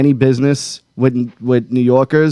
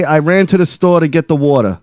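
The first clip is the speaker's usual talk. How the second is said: New York accent. Shown as a demonstration. Host coaching a caller on the sentence, New York accent. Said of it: "can you do a New York accent".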